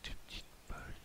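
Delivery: whispering. Real, not acted. Sneaking past enemies in game.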